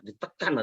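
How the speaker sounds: "ditekan" slowed down with weight on "tekan"; emphatic stress. Shown as a demonstration. Trainer showing students emphasis, stressed "ditekan". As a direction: lean on "ditekan", drawing it out. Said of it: "ada penekanan".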